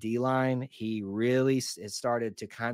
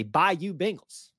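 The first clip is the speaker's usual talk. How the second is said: mock taunt; 6 semitones higher than usual. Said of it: "and say".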